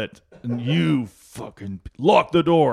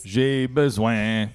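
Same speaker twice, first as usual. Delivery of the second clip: put-on French accent; much slower than usual. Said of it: "And French ones".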